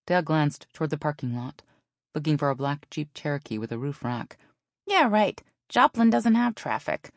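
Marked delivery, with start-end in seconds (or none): 4.9-7.1 sarcastic. A narrator's reading. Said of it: "Zoe said with a raised eyebrow".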